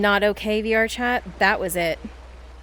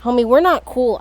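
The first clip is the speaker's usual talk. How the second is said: mock mad; 5 dB louder than usual. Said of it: "I'm mad at you".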